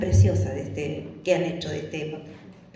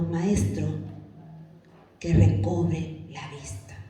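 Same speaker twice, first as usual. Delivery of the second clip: humble request; 4 semitones lower, 4 dB quieter, slower than usual. Acted. Voices the blind man's quiet answer.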